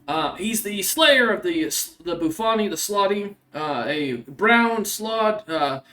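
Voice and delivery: courteous inquiry in a lightly acted voice; polite monster hunter. Stranger asks after a criminal.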